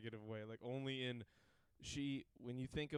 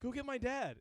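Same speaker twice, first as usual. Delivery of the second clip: urgent plea; 11 semitones higher, 4 dB louder than usual. Retold or imitated. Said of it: "he was like".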